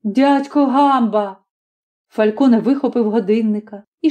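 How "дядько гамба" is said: put-on boy's voice, slow and wary; a child blurting a name; lightly voiced little boy; young boy. Boy answers his mother.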